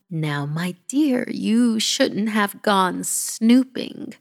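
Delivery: slow, lightly voiced grandmother tut-tutting; gentle granny scolding. Granny gently scolding the child for snooping, slow.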